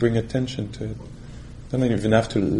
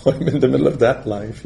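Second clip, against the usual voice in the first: amused, a little raised in energy; laughing; 3 semitones higher, 5 dB louder than usual. Real, not acted. Teacher joking to retreatants about loving life, laughing. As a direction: say it through a light laugh. Laughs at own wry remark.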